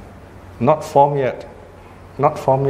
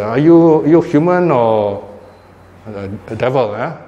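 mild mock scolding. Chinese mother to her son, mildly mock scolding. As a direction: lightly act out a mother's telling-off. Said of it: "sometimes a Chinese mother will scold".

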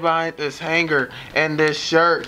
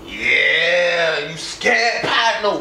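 thug taunt; much slower than usual. Acted. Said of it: "Act scared this time".

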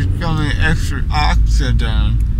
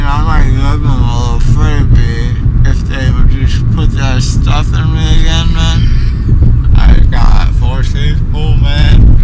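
loud; 7 dB louder than usual. Real, not acted. Loud drugged rambling.

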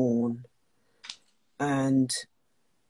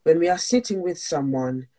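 earnest, slightly raised reading voice; reading aloud; 3 dB louder than usual. Acted. Host reading a Buddhist priest's passage on mourning, earnest.

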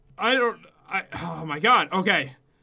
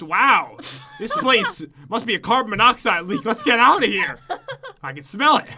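mock excuse; 5 dB louder than usual. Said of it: "You just make up an excuse".

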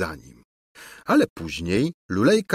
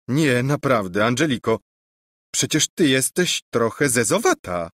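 higher, wondering, mocking discovery; astonished prince; 3 semitones higher than usual. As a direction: stare at her as if for the first time. Prince suddenly sees her plainly.

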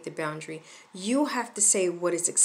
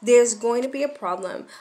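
raised, firm parental warning; higher, emphatic telling-off; elevated voice; 4 semitones higher, 4 dB louder, faster than usual. Shown as a demonstration. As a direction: lift the voice a little to warn a child. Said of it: "My voice is gonna be elevated".

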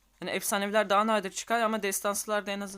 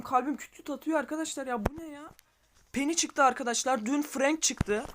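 higher, louder, heart-racing joy; giddy excitement; 6 semitones higher, 4 dB louder than usual. Real, not acted. Streamer telling viewers he got Penny, thrilled and loud. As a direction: gush about the lucky pull. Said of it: "Mutluluktan ne diyeceğimi bilemiyorum".

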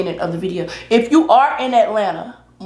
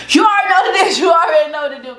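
shouting; 7 semitones higher, 4 dB louder, faster than usual. Acted. Outro catchphrase shout.

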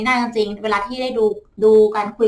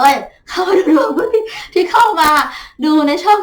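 choked-up laughing; 6 semitones higher, 6 dB louder than usual. Real, not acted. Thanking disciples, emotion breaks through.

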